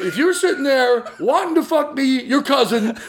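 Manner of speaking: lightly put-on New Jersey accent, fast; slimy New Jersey wise guy, laughing. Cousin pitching himself, mock New Jersey accent. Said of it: "I have a New Jersey accent all of a sudden".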